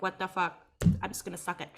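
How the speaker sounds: soft muttered aside; hushed. Retold or imitated. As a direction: drop it low, half laughing. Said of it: "I was like".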